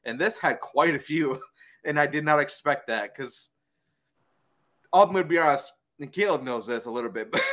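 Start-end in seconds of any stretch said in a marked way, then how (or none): 4.9-7.4 talking with a dry mouth; sticky, dry-mouthed speech. Real, not acted. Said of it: "sorry, my mouth's so dry".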